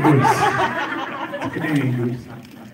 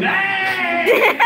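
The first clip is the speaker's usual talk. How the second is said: a high, bright-called Canadian "Hey!"; 12 semitones higher than usual. Retold or imitated. Comedian mimicking how Canadians call out, high Canadian hey. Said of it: "We walk into a room".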